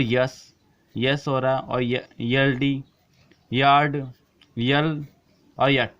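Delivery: careful model words, each set apart. Shown as a demonstration. Teacher demonstrates the Y sound to students, word by word. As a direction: say each example word on its own. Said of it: "ये के अंदर उच्चारण हो रहा है".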